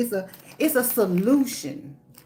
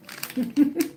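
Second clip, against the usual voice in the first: corny dad laugh; 3 semitones higher than usual. Real, not acted. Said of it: "I'm laughing at my own jokes".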